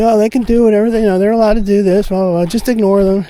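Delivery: mock cop waving it away; dismissive cops. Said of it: "the cops are like".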